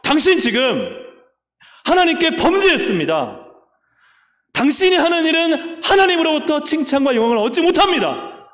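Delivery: high, loud priest's rebuke to the king; stern rebuke. Acted. Priest rebuking King Uzziah, high and loud. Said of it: "제사장이 하는 말이 왕한테 뭐라 그래요".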